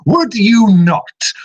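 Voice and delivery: high, loud, slow spirit taunt; a spirit pressing its point on Card; slow high ghostly jab. Acted. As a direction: drag it out mockingly. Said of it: "his voice echoes once again".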